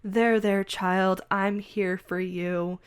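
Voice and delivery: slow, syrupy comfort of a manipulator; mock soothing. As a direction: coo it like a fake mother. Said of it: "is kinda like".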